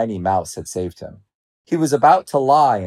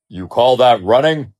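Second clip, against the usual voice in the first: loud, scoffing challenge; scornful lion; 2 semitones higher, 6 dB louder than usual. A narrator's reading. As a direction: sneer at them as a boastful lion. Lion boasts and belittles other lions.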